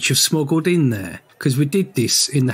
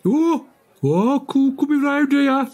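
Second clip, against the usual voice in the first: much higher, hammed-up Black Country voice; comic Black Country accent; 12 semitones higher than usual. Teasing his co-host with a high Black Country accent. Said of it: "if you did it with the accent".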